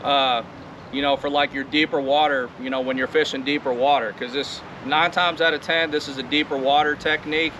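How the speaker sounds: talking over wind noise; recorded outside in wind; windy outdoors. Real, not acted. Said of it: "it's awfully windy out here".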